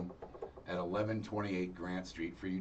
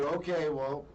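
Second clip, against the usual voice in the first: lightly voiced mom, higher-pitched; imitated approving mom; 6 semitones higher than usual. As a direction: send him off in a higher mom voice. Mom sends son off, retold.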